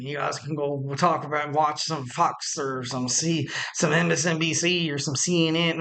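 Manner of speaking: light slip into a Southern accent; a hint of Southern twang. Real, not acted. Host teasing listeners who don't like wrestling talk, light Southern accent. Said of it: "I switched to a Southern accent".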